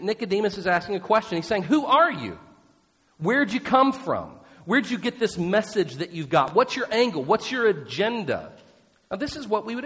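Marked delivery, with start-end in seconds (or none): 1.6-8.5 higher, louder, pointed questioning; suspicious questions. Acted. Nicodemus interrogating Jesus with suspicion, higher and louder. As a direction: probe him like you don't trust him. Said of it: "a healthy helping of suspicion".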